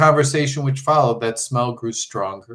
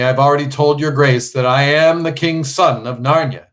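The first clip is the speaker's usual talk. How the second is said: stern; 3 semitones higher, 6 dB louder than usual. Acted. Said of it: "said the prince sternly".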